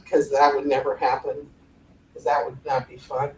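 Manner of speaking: low, toneless drone; monotone. Shown as a demonstration. Coach joking it would not be fun, monotone. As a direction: keep droning on one low pitch. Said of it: "It hurts to talk like that".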